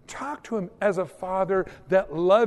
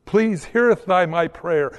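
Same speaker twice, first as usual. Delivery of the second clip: mock King James prayer; 5 dB louder than usual. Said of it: "gotta pray in sixteenth century King James English".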